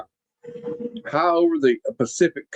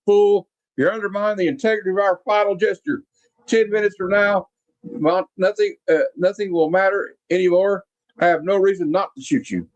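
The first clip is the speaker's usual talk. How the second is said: mock menacing villain; 6 semitones higher than usual. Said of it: "he's like".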